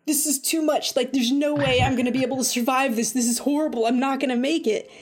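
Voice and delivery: lightly acted overwhelmed panic; mock freak-out. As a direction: retell a mild freak-out. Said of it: "I start freaking out".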